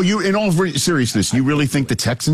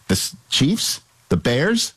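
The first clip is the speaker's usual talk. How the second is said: ordinary talk, nothing marked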